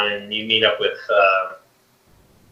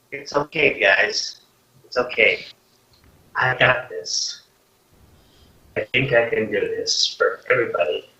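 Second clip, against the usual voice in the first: tearful father; 4 dB quieter than usual. Acted. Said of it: "he's in tears now".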